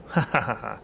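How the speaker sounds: acted gloating laugh; put-on ha-ha laugh at your rival; villain's laugh. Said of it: "before laughing".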